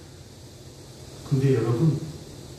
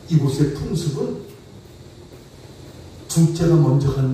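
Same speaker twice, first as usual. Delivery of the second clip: sly uncle's decree; 4 semitones lower than usual. Retold or imitated. Uncle Laban dictating terms to Jacob, low and lordly. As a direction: hand down the rule like a crafty elder. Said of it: "외삼촌이 뭐라고 말합니까".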